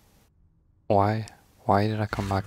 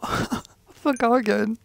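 laughing lament; 11 semitones higher, slower than usual. Real, not acted. Laughs at own mistake.

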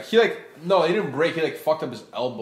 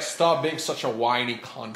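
slow, laughing British scolding; British accent; slower than usual. Acted. Brit telling someone off, slow British accent. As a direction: draw out a mock-British insult. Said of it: "The British would be like".

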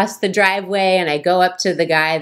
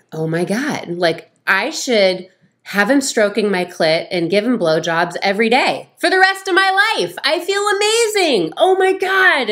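building from easy to much higher, gushing delight; blissful gushing; 5 semitones higher than usual. Retold or imitated. Wife reliving afterglow, rising blissful gush. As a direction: let the bliss climb into squeals. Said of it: "And I was thinking".

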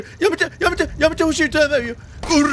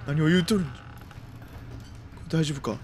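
low, slow creaky elder voice; creaky wise old man; 7 semitones lower, 9 dB quieter, slower than usual. Pretend. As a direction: play a doddering wise old sage.

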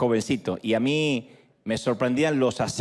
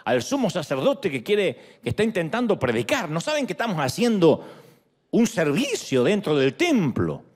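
hammed-up outraged Pharisee, breaking into a laughing shout; mock indignant Pharisee; 5 semitones higher than usual. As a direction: play the Pharisees fussing about the noise outside, half mocking. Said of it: "supongo que dirían". (imitando con burla a un fariseo indignado)

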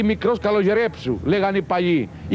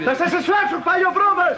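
mock threat; 3 semitones higher than usual. Sketch husband threatens.

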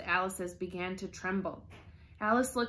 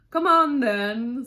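loud, slow, raised-pitch order; commanding call; 4 semitones higher, 12 dB louder, slower than usual. A narrator's reading. The Queen orders Alice along, calling loudly.

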